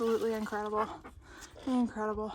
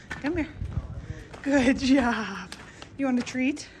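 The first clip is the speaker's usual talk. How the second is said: talking to a dog; 2 semitones higher, 5 dB louder, slower than usual. Real, not acted. Praising dog, offering treat.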